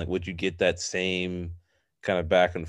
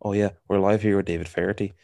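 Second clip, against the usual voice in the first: put-on quick, light stab at a broadcaster's accent; attempted Feherty accent; faster than usual. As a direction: rattle off an on-air line in a half-hearted put-on accent. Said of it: "Do the accent".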